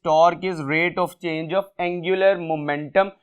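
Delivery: slow, careful classroom dictation. Shown as a demonstration. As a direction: read the definition slowly for copying. Reads definition for notes.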